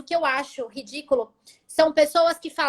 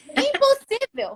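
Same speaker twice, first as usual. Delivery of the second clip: high, drawn-out incredulous exclamation; mock-astonished cry; retold disbelief; 10 semitones higher, slower than usual. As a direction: repeat it higher, stretching the word in disbelief. Emphatic retold reaction of disbelief.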